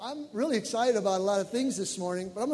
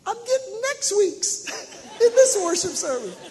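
much higher tearful laughing voice; high daughter's laughing cry; 7 dB louder than usual. Retold or imitated. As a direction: laugh through joyful tears like his daughter. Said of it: "She goes".

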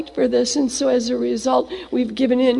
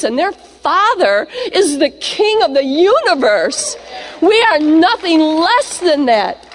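rising preaching; 3 semitones higher than usual. Acted. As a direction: swell it up to a proclamation. Preaching builds to climax.

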